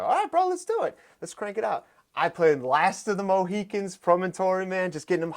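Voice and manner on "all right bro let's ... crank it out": high, loud fired-up coach; pitched-up hype man; hype-up coach shout. Retold or imitated. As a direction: pump him up before the set. Hyping client before circuit.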